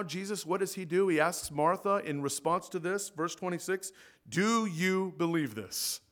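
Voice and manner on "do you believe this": slow, measured quoting of Jesus' question; slow quoted question. Shown as a demonstration. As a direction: read the question slowly, as scripture. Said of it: "I think we can do better than that".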